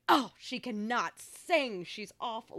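imitating dismissive parents, high emphatic start; drawn-out mock disgust, dropping off at the end; hating parents. Daughter quoting parents' reaction to a singer on TV, mock hating. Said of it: "just hating whenever she would".

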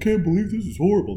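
high, fast mock outrage; mock outraged customer. Customer calling the news about a cake, high and fast mock outrage. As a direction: squeal it like a wronged shopper. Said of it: "you're like".

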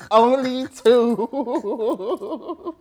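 very slow, stretched-out words in a put-on voice; drawn-out mock command. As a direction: drag every sound out like a fed-up ark keeper. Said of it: "I'd be like".

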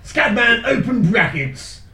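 slow, solemn reading of the title; grand recital. Shown as a demonstration. Reading the song title aloud to friends, slow and solemn. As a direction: read it out like sacred verse, slowly. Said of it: "such beauty spoken in such a wonderful accent".

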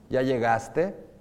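slow "¿Ya llegaste?" with a rising end; slow exaggerated question. Shown as a demonstration. Teacher demonstrates question melody. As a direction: stretch the question upward. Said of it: "me voy a contradecir".

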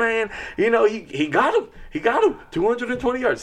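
a hint of a Southern uncle's accent; high mock Southern accent, uncle bragging. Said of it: "with the Southern accent".

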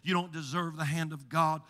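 low, soft sneering accusations; taunting adversary voice. Acted. The inner adversary voice accusing Hannah, low and soft. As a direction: murmur contempt at her back. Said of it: "there's this voice".

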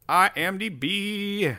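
high, slow singsong summons; coaxing call. Pretend. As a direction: draw each letter out high. Calls site's name once more.

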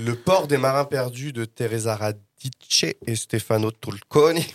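put-on slow, playful Italian accent on the title and names; mock Italian accent. Reviewer names the comic's Italian authors in a mock Italian accent. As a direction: savour Radice and Tulconi the Italian way, Radice ending in "tch". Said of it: "avec mon bel accent italien".

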